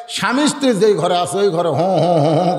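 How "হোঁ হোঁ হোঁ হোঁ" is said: imitated bull snorting. Storyteller imitating the bull entering the bedroom, snorting. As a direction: huff like a blundering bull. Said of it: "করে ঢুকতেছে".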